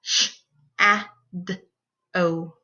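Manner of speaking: SHADOW split into four sounds; sh... a... d... oh, separated; sounded out phonemes. Shown as a demonstration. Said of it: "Let's try that one again".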